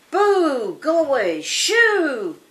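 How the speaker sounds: loud, high, drawn-out hollers; shooing shout. Acted. Scarecrow waves his arms at the crows, shooing loudly. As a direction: scare them off with big storybook calls.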